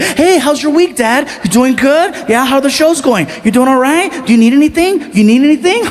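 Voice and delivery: butter up Dad before Christmas; fake-chatty teen. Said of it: "very like".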